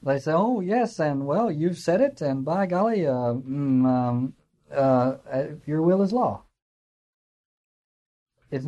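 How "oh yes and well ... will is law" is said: half-hearted, grudging agreement; reluctant mumbled assent. Retold or imitated. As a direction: hem and haw through a yes. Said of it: "the chorus kind of mumbles".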